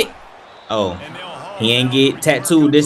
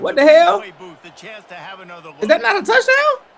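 indignant; 11 semitones higher than usual. Real, not acted. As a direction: demand the touchdown. Protesting a reviewed touchdown.

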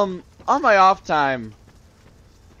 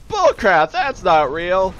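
mock disbelieving soldier; 4 semitones higher, 5 dB louder, slower than usual.

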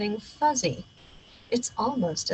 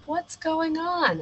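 higher, slow puzzled dad; dad woken up at night; sleepy dad; 8 semitones higher, slower than usual. Acted. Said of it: "asked Dad".

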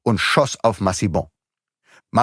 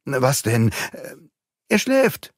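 mother's voice; 5 semitones higher, slower than usual. A narrator's reading. Mother finds sleeping son.

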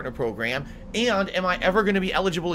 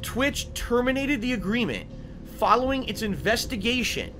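reading out the email. Real, not acted. Reads Twitch email aloud.

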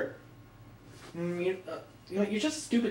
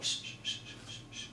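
shushing; 15 dB quieter than usual. Acted. Hushing while sneaking.

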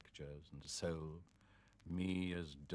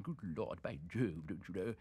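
put-on a lightly overdone upper-class British accent, stammered; hint of a toff British accent; over-British accent. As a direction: play up the British accent a little for the Americans. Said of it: "in an over-British accent".

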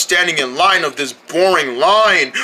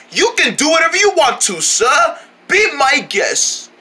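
put-on posh British accent; 7 semitones higher than usual. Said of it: "talking like that".

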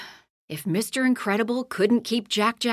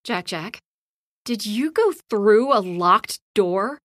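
amazed, a little louder on the question; 4 dB louder than usual. Acted. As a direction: ask it in wide-eyed amazement. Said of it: "asked in amazement".

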